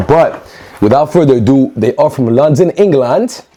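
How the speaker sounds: high, sing-song mock British accent on London, England; terrible British accent. Vlogger botching a British accent while unboxing, mock British. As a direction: ham up a bad British accent. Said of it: "that was a terrible accent".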